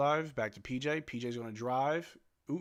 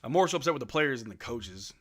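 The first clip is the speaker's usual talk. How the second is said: ordinary talk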